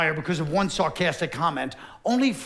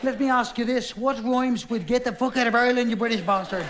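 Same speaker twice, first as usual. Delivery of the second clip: mock Irish poet; 5 semitones higher than usual.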